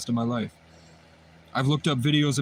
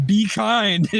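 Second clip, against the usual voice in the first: much higher, louder, strained plea; choked plea; 7 semitones higher, 5 dB louder than usual. Retold or imitated. Pleading with the officer while being choked, strained and high. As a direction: beg through a squeezed throat. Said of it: "I'm going".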